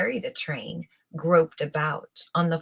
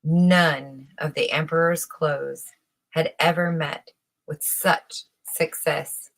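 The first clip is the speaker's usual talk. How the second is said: plain reading voice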